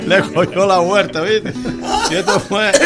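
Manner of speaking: laughing through words. Real, not acted. Still laughing after the punchline.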